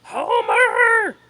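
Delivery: high, loud shout for Homer; shouting from the kitchen window; crying out. Acted. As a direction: call across the farm. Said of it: "she cried".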